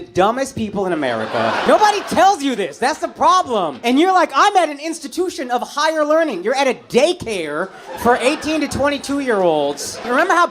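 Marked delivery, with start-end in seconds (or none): 4.3-6.4 mock-lofty student voice, pitched up; self-important student. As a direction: proudly play the student, higher. Voicing self-important college students.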